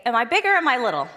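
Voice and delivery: put-on cheerful question to kids. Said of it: "I would say".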